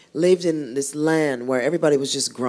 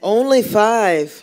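laughing protest; 6 semitones higher, 4 dB louder, much slower than usual. Real, not acted. Joking about word limit.

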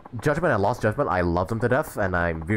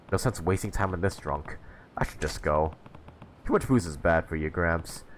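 lightly voiced low, brushing off a drunk; a hint of a curt young fighter, pitched down; Kiryu, dismissive; 3 semitones lower than usual.

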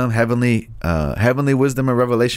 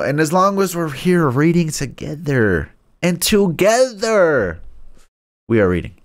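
silly dramatic voice; 5 semitones higher, slower than usual. Pretend. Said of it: "I don't know why I did that".

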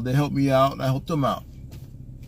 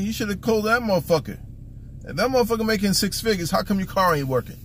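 higher, quick retold comeback; scornful retort; 6 semitones higher, faster than usual. Man answering woman about her six-figure man, scornful. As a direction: fire back a challenge, pitched up and fast.

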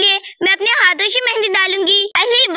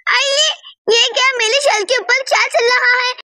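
higher-pitched startled alarm; a touch of panic, pitched up; mildly frightened; 3 semitones higher than usual. Acted. Girl spots a spider on her clothes, mildly frightened.

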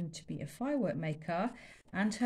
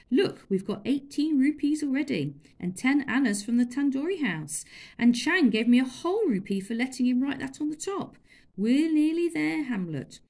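put-on higher, louder eager boy; excited boy; 6 semitones higher, 7 dB louder than usual. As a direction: share the plan eagerly. Chulak excited about money.

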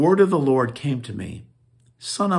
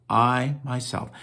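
"I" in "I myself" stressed with a falling tune; emphatic I. Shown as a demonstration. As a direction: punch the word "I" in "I myself". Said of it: "It's an emphatic I".

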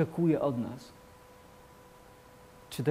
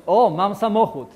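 udawany zachwyt; 6 semitones higher, 9 dB louder than usual. Retold or imitated. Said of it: "I ty możesz powiedzieć".

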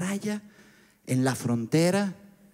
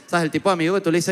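ordinary delivery

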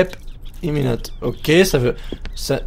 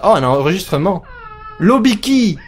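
ordinary delivery

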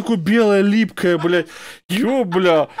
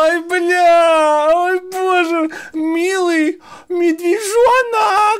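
mocking coo; 11 semitones higher, much slower than usual. Mocking a wife's pet name.

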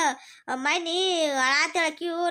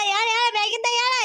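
angry shout; 4 semitones higher, 3 dB louder than usual. Acted.

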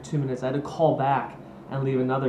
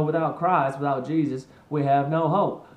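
mock Southern preacher; 3 dB louder than usual. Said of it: "read this script with a deep South accent".

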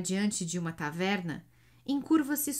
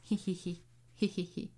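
soft giggle; 5 dB quieter than usual. A narrator's reading. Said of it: "ri Iona".

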